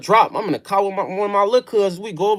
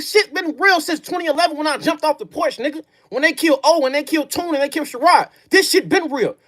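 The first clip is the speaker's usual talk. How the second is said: heated rebuttal; 4 semitones higher than usual. Real, not acted.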